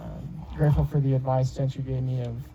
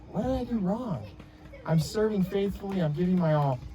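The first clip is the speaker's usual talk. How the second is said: a higher, exasperated mock protest; retold frustration; 5 semitones higher, 3 dB quieter than usual. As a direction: replay how wronged you felt back then. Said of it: "and I remember being mad".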